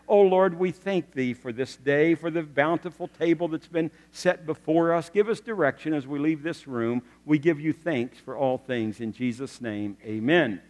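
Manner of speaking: a touch of solemn, mock-pious praying; pious prayer. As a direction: intone it like a dutiful table prayer. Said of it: "prays this very pious prayer".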